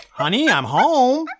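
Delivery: loud, slow hello to the house; husband announcing he's home; calling out. Acted. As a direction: call out cheerily from the door. Husband calls out arriving.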